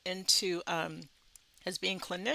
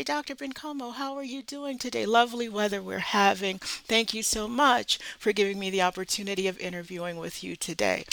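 mind every manner, sound professional; polished interview politeness; proper polite greeting; 2 semitones higher, 4 dB louder than usual. Retold or imitated. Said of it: "I have to go in and say".

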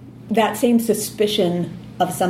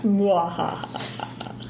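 slow hammed-up evil cackle; drawn-out villain laugh; mad scientist; 5 dB quieter, much slower than usual. Spooky joke about devil books.

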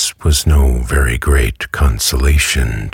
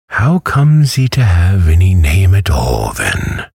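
surprised matron; 7 semitones higher, 3 dB louder than usual. A narrator's reading. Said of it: "Missus Mann asks".

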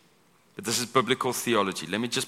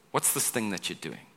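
mocking; 2 semitones lower, 7 dB quieter than usual. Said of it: "It tries to belittle".

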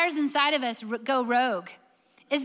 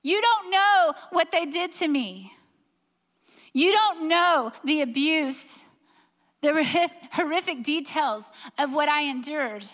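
protesting abuse victim; 3 semitones higher, 3 dB louder than usual. Acted. A hurting listener objects to Susan, demanding justice, impassioned protest. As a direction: voice an aggrieved listener, rising louder. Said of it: "and you're saying".

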